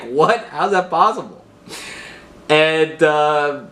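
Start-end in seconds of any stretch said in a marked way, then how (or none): 0.0-1.4 high, stunned voice; shocked hostage. Retold or imitated. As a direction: gasp it out in disbelief. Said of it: "And the guy's like".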